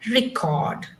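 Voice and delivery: "record" stressed on CORD; stress on second syllable. Shown as a demonstration. Teacher demonstrating to class, "record" stressed late. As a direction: say "record" leaning on the last syllable. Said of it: "This is how you would say".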